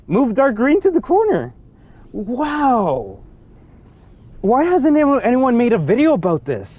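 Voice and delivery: high-pitched, incredulous exclaiming; amazed disbelief. Real, not acted. Player finding the answer is right now, amazed. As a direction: marvel at it, voice pitched well up.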